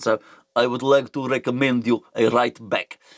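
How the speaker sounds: deep, laid-on, put-on generic Russian accent. Doing a character voice like a Russian meerkat: Thomas Suchek generic Russian accent. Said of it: "That's my Thomas Suchek. ... It's sort of like a generic Russian meerkat thing. Um, bit more bassy than a meerkat".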